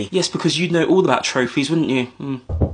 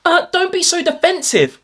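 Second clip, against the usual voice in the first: teacher voice; 12 semitones higher than usual. Acted. Teacher scolding Liverpool.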